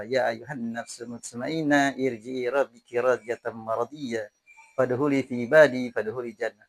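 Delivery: slow, measured Arabic recitation; spoken scripture quotation at an unhurried pace; Quran recitation. Acted. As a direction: recite the verse slowly, drawing out the syllables.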